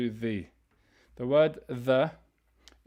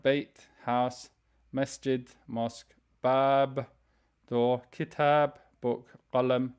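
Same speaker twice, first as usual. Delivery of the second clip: each Arabic word said slowly, set apart by pauses; teacher reading a word list aloud; slow vocab reading; slower than usual. Shown as a demonstration. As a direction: read word by word for repetition. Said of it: "I'm gonna read them slowly".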